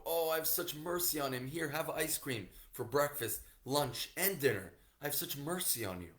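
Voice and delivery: doting parent. Retold or imitated. Indulgent parent voiced to son.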